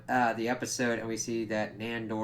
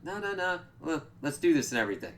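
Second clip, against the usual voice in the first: much higher, fast nervous pleading; imitated panic; 6 semitones higher, faster than usual. Guillermo stalling the vampire hunters, mock panicked pleading. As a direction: rush it like you're stalling in fear. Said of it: "Guillermo's freaking out".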